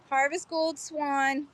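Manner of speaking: Harvest Gold swan slowed and savored; savoring the name. Shown as a demonstration. Seller admiring her find, slow and savoring. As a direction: linger on Harvest Gold like a treat. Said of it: "Absolutely stunning color".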